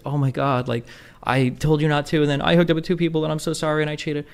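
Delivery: a touch of mock sobbing apology; mock crying. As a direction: mimic her sorry plea, lightly hammed. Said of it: "She's, like, crying".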